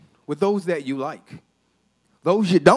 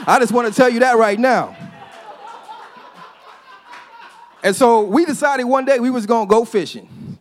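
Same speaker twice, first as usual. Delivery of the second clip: laughing; 5 semitones higher, 5 dB louder than usual. Real, not acted. Joke, laughing with crowd.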